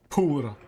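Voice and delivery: "Poor" said alone, its P popped with emphasis; emphatic P. Shown as a demonstration. Streamer demonstrating emphasis on the letter P, emphatic "Poor". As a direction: lean on the P of "Poor", then let it fall. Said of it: "emphasis on the, on the letter P".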